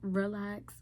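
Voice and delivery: whispered self-talk; hushed, slow inner voice; voice in her head. Retold or imitated. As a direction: whisper it to yourself, slowing on the last word. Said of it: "like, in my head".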